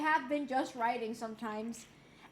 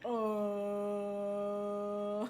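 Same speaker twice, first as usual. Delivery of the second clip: long, low, steady drone of "uh"; drawn-out monotone "uhhh"; blank "uh"; 6 semitones lower, 5 dB quieter than usual. Retold or imitated. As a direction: imitate being stuck with one droning low note. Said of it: "and I'm like".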